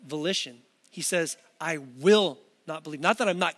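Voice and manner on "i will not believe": WILL leaned on and held; firm weight on the word will; stress on WILL. Retold or imitated. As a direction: press on will to show a deliberate choice. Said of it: "a matter of the will".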